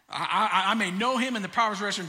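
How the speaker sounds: fast, laughing, excited quoting; mock-excited church shout. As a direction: rush it out like a thrilled crowd. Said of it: "That gets us shouting and excited".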